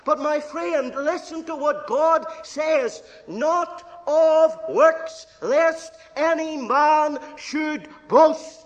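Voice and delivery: preaching at full force. Real, not acted. Preacher urging his friend to hear God, loud preaching. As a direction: drag each word out and ring it. Preacher quoting God's word.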